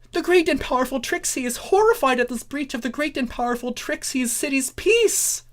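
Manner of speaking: high, fast boastful showpony; Trixie voice. A narrator's reading. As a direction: rattle it off with grand self-importance. Trixie horrified.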